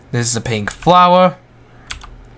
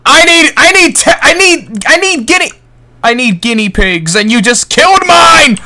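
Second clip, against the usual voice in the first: much higher, panicked complaint; frantic high shout; 9 semitones higher, 5 dB louder than usual. Real, not acted. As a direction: yell it in dismay. Guinea pig killed, frantic.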